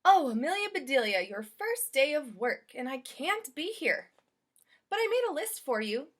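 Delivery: a gentle lady leaving instructions; Mrs Rogers. Acted. Employer leaving a list for her new maid.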